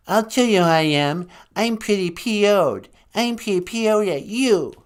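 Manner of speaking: hammed-up grumpy artist; mock angry Van Gogh. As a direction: fume at the host as a peeved painter.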